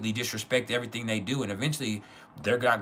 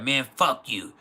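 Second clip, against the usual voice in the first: louder, angry imitation of father; retold angry cursing; 3 semitones higher, 5 dB louder, slower than usual. Father rejecting talk of God, imitated with louder anger. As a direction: throw the curse back as the mad father. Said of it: "He started cussing me out".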